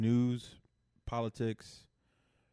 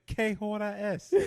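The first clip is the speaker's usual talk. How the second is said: drawn out slowly, word by word, "Que hora es?"; slow mock Spanish; 8 semitones higher, slower than usual.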